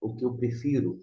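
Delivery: fast, pernickety mock objection; fussy critic. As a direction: play the pedantic critic. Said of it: "para dizer assim".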